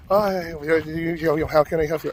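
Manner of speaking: a lightly done, admittedly bad fake Asian accent. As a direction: mimic the nail salon lady with a poor Asian accent. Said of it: "my fake Asian accent isn't too good".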